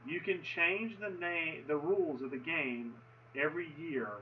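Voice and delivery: slowed right down, each word laid out; slow, deliberate repeat. Shown as a demonstration. Explaining league rule votes to viewers, slow and deliberate. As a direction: repeat it slowly so it sinks in. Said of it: "I'm gonna say that again".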